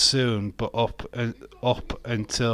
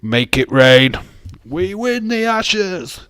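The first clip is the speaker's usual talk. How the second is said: loud, much higher gleeful cry; excited cheer; 9 semitones higher, 9 dB louder, slower than usual. Real, not acted. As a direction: cheer it like your team just won. Cheering rain for cricket win.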